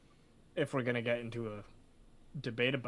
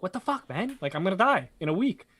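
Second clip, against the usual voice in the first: panicked disbelief; 6 semitones higher, 4 dB louder than usual. Retold or imitated. Convict panicking before his hanging.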